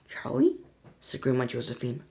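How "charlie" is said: much higher, wavering call; high old woman call. A narrator's reading. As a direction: call the boy in a thin old voice. Grandma calls Charlie.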